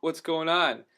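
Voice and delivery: retold bewilderment. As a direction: ask around in mock confusion. Asking around, bewildered, in retold scene.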